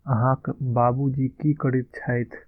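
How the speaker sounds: slow, careful Maithili model line; slow model phrase. Shown as a demonstration. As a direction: say it slowly, like a teacher modelling. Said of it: "यहाँ पे थोड़ा respect दे रहे हैं".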